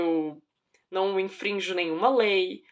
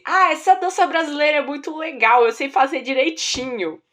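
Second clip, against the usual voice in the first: put-on excited boy; 5 semitones higher, 7 dB louder than usual. Acting out proud boy's boast.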